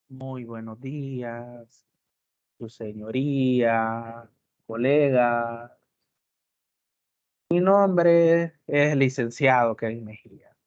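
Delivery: slow, drowsy lawyer greeting; mock sleepy courtroom greeting; sleepy monotone. Shown as a demonstration. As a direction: sound half asleep at the hearing. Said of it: "hablar como que tiene sueño".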